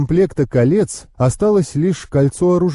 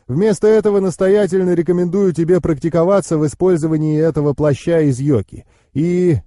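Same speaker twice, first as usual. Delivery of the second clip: higher-pitched knowing uncle; explaining uncle; 4 semitones higher than usual. Acted.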